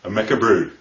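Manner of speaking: homely Lancashire phrasing; understated Lancashire accent; Burnley accent. Shown as a demonstration. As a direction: say it like a Burnley local. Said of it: "Burnley, well, they talk like this".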